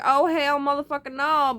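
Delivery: loud, high, furious refusal; defiant shout. Retold or imitated. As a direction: yell it at an intruder breaking in. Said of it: "I'd be like".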